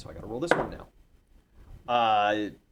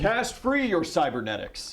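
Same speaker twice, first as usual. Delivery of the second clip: higher-pitched cartoon mascot battle cry; Tony the Tiger; 8 semitones higher, 3 dB louder than usual. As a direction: call it out like a cereal mascot. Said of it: "You sound like Tony the, Tony the Tiger".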